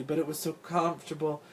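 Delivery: tired, weak excuse; weakly. A narrator's reading. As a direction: explain apologetically with little strength. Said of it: "Big Dot said weakly".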